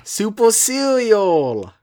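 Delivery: high, drawn-out squeal; squeaky high voice. Acted. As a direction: squeal the words up high, slowly. Joking correction.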